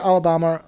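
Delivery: Alabama with a broad "bah" in the third syllable; Alabama, stressed vowel as in "father"; odd accent. Real, not acted. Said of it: "What was that accent?".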